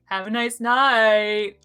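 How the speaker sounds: slow, half-hearted sing-song; kinda mean. Shown as a demonstration. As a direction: say it without committing. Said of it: "it sounded kinda mean".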